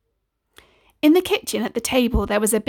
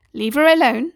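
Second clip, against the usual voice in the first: louder, stern but playful mum; firm motherly; 4 semitones higher, 5 dB louder than usual. Acted. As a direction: tell them off lightly. Mother breaks up kids.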